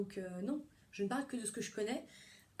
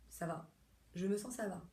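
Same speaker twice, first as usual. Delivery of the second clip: patient's noncommittal reply; 3 dB quieter than usual. Acted. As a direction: imitate a patient with little to say. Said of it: "quand j'ai des patients". (imitation d'un patient évasif, voix retenue)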